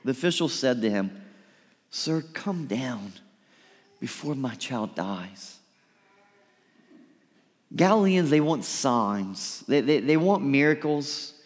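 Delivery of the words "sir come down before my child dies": hushed plea. Acted. Father begging Jesus for son.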